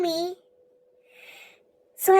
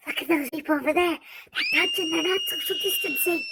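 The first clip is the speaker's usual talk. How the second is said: a hint of a nosy old woman pointing people out; grandma's voice, lightly done; 3 dB quieter than usual. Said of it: "then she's like".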